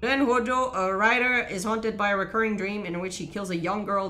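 story synopsis read aloud. Real, not acted. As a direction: read the recap out as a narrator would.

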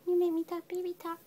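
high cooing repeat. Real, not acted. Owner cooing to her kitten in high baby talk.

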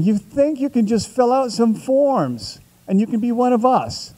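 retold screaming. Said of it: "And they're screaming".

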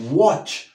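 WATCH with an O-like vowel, "wotch"; correct pronunciation. Shown as a demonstration. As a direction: model "watch" with the A as O. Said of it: "Esa O, A como O". (pronunciación correcta de "watch", con O)

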